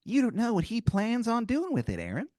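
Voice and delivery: squeaky tooth making an offer; tempting tooth creature. Acted. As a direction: tempt him like a tiny mob boss. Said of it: "He goes".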